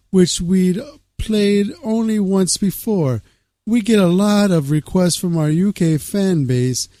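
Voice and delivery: lightly changed voice for a musician's quote; a musician quoted. Acted. Host reading a musician's quote on UK shows, lightly put-on voice. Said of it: "I wanted to just change my voice".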